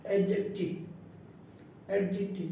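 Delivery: অ্যাডজেক্টিভ said as "ajective", d not separately sounded; silent d. Shown as a demonstration. Teacher showing d is written but silent, careful অ্যাডজেক্টিভ. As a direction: model অ্যাডজেক্টিভ twice without the d. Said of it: "উচ্চারিত হবে না".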